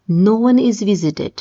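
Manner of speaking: slow, careful trial answer "No one is visited"; hesitant slow first attempt; slow wrong take. Shown as a demonstration. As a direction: try the phrase slowly, feeling your way. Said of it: "No one visited Nalanda university".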